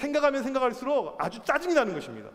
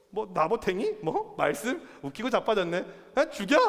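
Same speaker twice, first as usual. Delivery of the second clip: scornful queen. Acted. Queen scorning Naboth and God's word, acted contempt. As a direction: scoff in short questions, then threaten. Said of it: "하나님 말씀이고 뭐고 필요 없어요".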